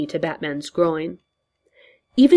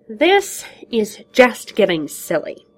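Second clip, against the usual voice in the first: slow breathy whisper, winded; breathless; 5 semitones higher, 4 dB louder, slower than usual. Acted. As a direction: gasp it out, out of air.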